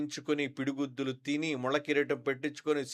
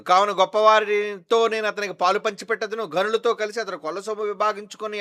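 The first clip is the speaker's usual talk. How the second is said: loud scripture reading; 7 semitones higher, 9 dB louder than usual. Acted. Pastor reading Isaiah to his congregation, loud preaching. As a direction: proclaim each line to the back row. Pastor reads verse twelve.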